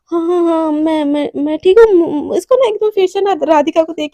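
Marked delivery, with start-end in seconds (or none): 0.1-1.9 panting. Acted. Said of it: "एकदम हाफ हाफ बोलती".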